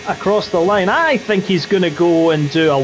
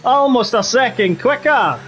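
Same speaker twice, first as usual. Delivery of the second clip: put-on Scottish accent. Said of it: "do the rest of the race in the Scottish accent".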